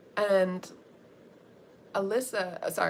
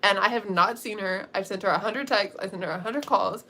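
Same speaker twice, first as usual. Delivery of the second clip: retold panic, building to a loud outburst; worked-up, ending in a loud demand; freaking out; 5 dB louder than usual. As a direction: act out a frantic friend, getting louder by the end. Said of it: "Anaya starts freaking out".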